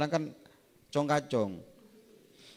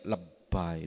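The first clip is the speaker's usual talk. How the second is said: inner scoff; 10 semitones lower, 6 dB quieter than usual. Retold or imitated. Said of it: "Dalam hati saya".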